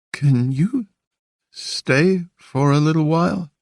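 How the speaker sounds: put-on high, small pleading child voice; a lonely boy begging him to stay. A narrator's reading. Boy begging Evan to stay, pleading.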